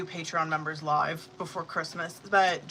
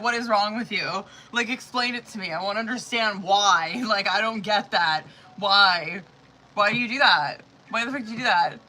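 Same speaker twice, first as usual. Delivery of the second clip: imitating husband's exasperation; 3 semitones higher, 6 dB louder than usual. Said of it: "I can hear my husband".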